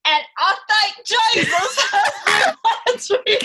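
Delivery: high, laughing mock British accent; bad British accent. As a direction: fake a British accent badly, cracking up. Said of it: "The accent".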